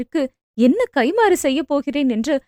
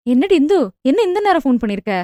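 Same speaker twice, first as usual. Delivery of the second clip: anxious; faster than usual. Acted. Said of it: "பதற்றமாக அழைப்பை ஏற்று".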